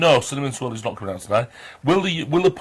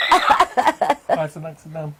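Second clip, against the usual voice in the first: slow drawn-out copied greeting; Lexi's voice; 3 semitones higher, much slower than usual. Retold or imitated. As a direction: echo the greeting slowly, like a watching viewer. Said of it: "Lexi's sat there going".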